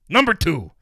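loud, high-pitched reveal; triumphant announcement. Retold or imitated. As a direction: imitate a boss proclaiming big news. Boss calls out next result.

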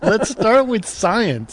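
slow mock-patient repeat; slow deliberate repeat. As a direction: spell it out like to a child. Repeats it slowly for emphasis.

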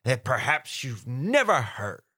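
put-on slow, gravelly old sailor reading; old sea captain voice. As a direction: play a grizzled sea captain. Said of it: "Like an old sea captain?".

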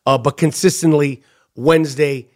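low, measured host plug; podcast subscription promo. Real, not acted. Host selling premium subscription to listeners, low deliberate pitch. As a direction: lay out the offer in a low, deliberate voice.

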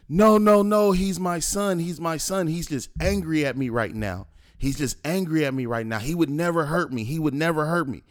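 high, urgent imitation, starting loud; pleading father. Father defends his son to police, imitated pleading. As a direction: mimic a panicked protest, repeating in a high voice.

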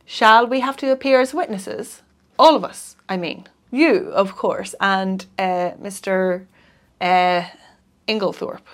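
halting, with uh and pauses before the name; hesitant. Acted. John asking the lawyer about witnesses, hesitant and halting. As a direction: feel for each word, unsure how to ask. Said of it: "Then he added rather hesitatingly".

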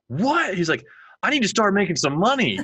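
a hint of a kid realizing he can make money; amazed kid. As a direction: pitch it way up like a wide-eyed six-year-old. Six-year-old son amazed by stocks.

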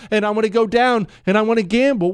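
high, quick, eager gushing; giddy excitement. Real, not acted. Host begging Chris to let him gamble, giddy excitement.

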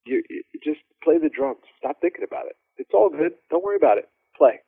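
easy, unhurried, no pressure at all; calm. Retold or imitated. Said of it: "Calm like that".

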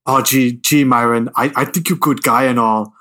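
lightly mocked Austrian accent; a touch of hammy Austrian accent; Arnold Schwarzenegger impression. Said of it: "his accent just sounds ridiculous".

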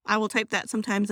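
ordinary talk

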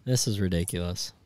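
usual speaking voice

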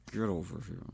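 low, soft, threatening through the teeth; scary parent through teeth; through gritted teeth. Retold or imitated. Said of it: "talks to you between their teeth".

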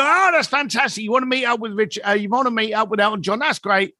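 high, eager, gushing phone voice; match his excitement note for note; matched enthusiasm. Shown as a demonstration. Demonstrating to listeners how to mirror a caller's enthusiasm. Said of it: "you marry the enthusiasm that they're giving you".

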